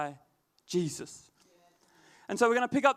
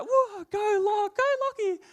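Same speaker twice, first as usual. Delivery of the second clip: excited cheering; 13 semitones higher than usual. Retold or imitated. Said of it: "And she's like".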